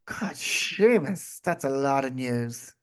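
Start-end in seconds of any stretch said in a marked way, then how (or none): 0.0-1.4 drawn-out, slow "God, Seamus"; mock exasperation. Real, not acted. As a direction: sigh it out, overwhelmed. Amazed at amount of news.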